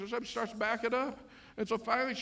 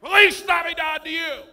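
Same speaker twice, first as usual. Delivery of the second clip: higher and louder, syrupy; passive-aggressive greeting; 8 semitones higher, 12 dB louder than usual. Retold or imitated. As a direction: greet her with pointed sweetness. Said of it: "supernaturally passive aggressive".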